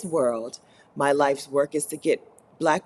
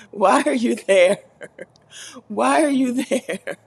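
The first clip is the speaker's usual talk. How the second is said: loud; 6 semitones higher, 6 dB louder than usual. Real, not acted. Mock outrage at Sharon.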